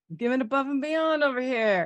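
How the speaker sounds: put-on New York accent. Teasing the other speaker by repeating their line: imitating a New York accent.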